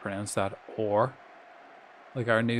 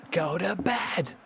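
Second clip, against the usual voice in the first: mock scolding; 7 semitones higher, slower than usual. Telling Jen off playfully.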